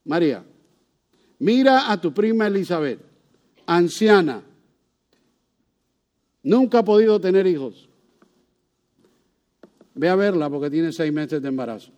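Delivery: gentle, mild reassurance; comforting. Acted. Angel comforting frightened Mary, gentle reassurance. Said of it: "para confortarla y para ayudarle".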